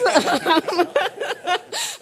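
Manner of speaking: a bright burst of real laughter, rising; amused laugh. Real, not acted. Joke about wanting one.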